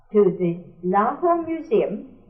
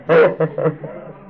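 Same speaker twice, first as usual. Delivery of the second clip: loud, high laughter breaking through the words; laughing out loud; 6 semitones higher, 6 dB louder than usual. Real, not acted. Telling friends about lying in bed while rabies was read aloud, laughing. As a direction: laugh helplessly at the memory.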